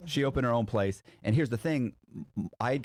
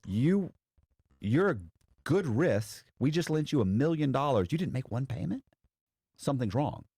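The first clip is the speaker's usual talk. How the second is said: lightly voiced higher incredulous banker; a hint of a suspicious lender, pitched up; imitating the bank; 7 semitones higher than usual. Bank voiced questioning defaulters.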